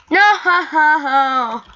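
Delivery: high, loud laughing no; rueful laugh. Real, not acted. Gamer failing again, loud rueful laugh. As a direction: laugh off the failure.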